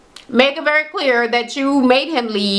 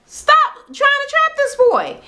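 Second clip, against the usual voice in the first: high, drawn-out scolding; slow it down and send the pitch soaring; exasperated plea; slower than usual. Real, not acted. Recapper tells the girl off for trapping him, exasperated plea. Speaker scolds the woman directly.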